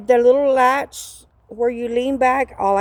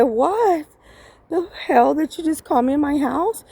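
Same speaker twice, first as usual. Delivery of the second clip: higher, acted disbelief; indignant retort replayed for listeners; retold indignant comeback; 5 semitones higher than usual. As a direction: challenge him with mild mock outrage. Acts out her angry comeback.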